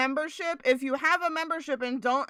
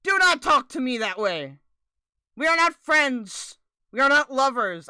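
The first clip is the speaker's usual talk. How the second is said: louder, hammed-up outrage; playful fake offense at a co-host; mock indignant; 2 semitones higher, 4 dB louder than usual. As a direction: put your foot down dramatically.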